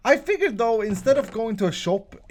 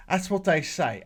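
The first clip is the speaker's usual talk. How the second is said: lightly imitated British accent; put-on British accent. Shown as a demonstration. Host showing viewers how the English say it, in a put-on British accent. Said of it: "I gotta put on my British accent".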